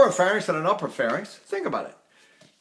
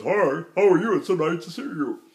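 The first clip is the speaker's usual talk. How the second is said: affected, artificially placed speaking voice; unnatural talking. Shown as a demonstration. Coach mocking unnatural diction, affected voice. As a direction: greet in a voice nobody really uses. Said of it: "Who do you know talks like this?".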